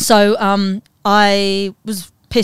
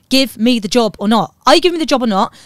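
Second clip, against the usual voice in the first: raised, louder demand, pressing harder on the repeat; blunt ultimatum; 4 semitones higher, 5 dB louder than usual. Acted. Performer fed up with being flirted with by TV companies, blunt ultimatum. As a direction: demand a straight answer, building in force.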